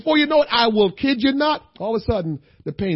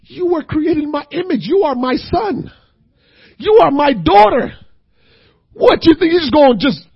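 voicing God; 4 semitones higher, 3 dB louder than usual. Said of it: "God is saying".

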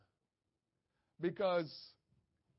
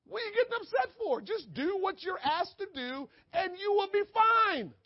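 higher and a touch louder, pressing the question; God chiding Cain; 11 semitones higher, 6 dB louder than usual. Acted. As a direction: push it home like a father to his son. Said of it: "I do this to Jordan all the time".

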